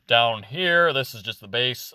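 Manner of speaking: bass robot register, dropped low. Shown as a demonstration. Tutor demoing a huge Warforged, low bass robot. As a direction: sink into a big Warforged bass. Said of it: "You know, down".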